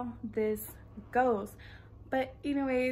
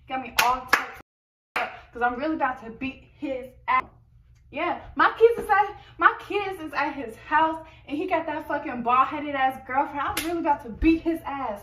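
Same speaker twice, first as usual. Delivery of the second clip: put-on angry girl; 2 semitones higher, 4 dB louder than usual. Skit, angry about baby father.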